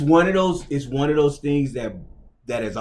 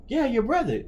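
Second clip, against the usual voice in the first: coach's voice; 11 semitones higher than usual. Retold or imitated. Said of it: "He's like".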